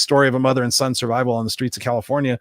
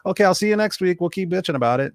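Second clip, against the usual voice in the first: much higher, whiny mock self-pity; mocking pity party; 9 semitones higher, 3 dB louder than usual. Mocking friends at a complaining session, high whiny self-pity. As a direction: ham up a group wallowing in woe. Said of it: "we sit around, we go".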